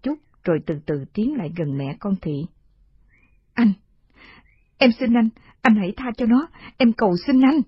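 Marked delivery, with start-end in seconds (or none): 3.5-7.6 begging. Acted. Begging mercy for daughter.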